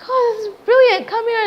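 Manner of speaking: high, loud imitation of an overjoyed mom; delighted mother. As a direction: burst out with delight and call her over. Acting mother's delighted reaction to news.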